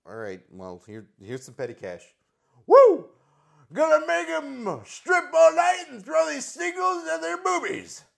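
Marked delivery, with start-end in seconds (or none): 2.7-8.0 high loud whoop then shouted brag; rowdy shouting wrestler exit; Ric Flair impression. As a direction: leave yelling like a rowdy wrestler.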